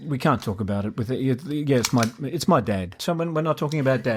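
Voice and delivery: muffled behind a hand; talking through covered mouth; hand over mouth. Real, not acted. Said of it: "Don't put your hand over your mouth".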